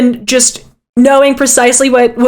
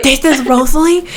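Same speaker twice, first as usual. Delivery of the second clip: gasping surprise. Acted. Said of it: "he's, he's, like, whispering".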